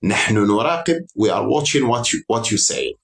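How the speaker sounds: slow, deliberate mock warning; slow half-serious official tone. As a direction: voice the US administration slowly and pointedly. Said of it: "قالت له".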